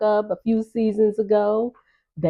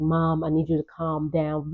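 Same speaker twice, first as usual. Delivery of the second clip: calming; 2 semitones lower, 6 dB quieter than usual. Retold or imitated. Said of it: "Very calming".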